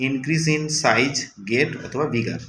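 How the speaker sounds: very slow definition; slow reading aloud. Shown as a demonstration. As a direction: drag the phrase out for pupils. (খুব ধীরে পড়া)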